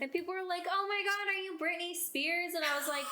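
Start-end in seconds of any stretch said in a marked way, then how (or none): 0.7-2.5 higher-pitched mock gushing; raised, eager quoted voice; excited onlookers. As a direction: imitate an excited fan's question. Mimics excited people at Halloween.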